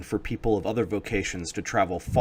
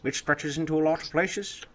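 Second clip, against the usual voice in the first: grandfather voice; 6 semitones higher than usual. Acted. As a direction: explain like a wise grandfather.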